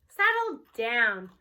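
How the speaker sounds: mild calming. Acted. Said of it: "Mister Kermit says mildly".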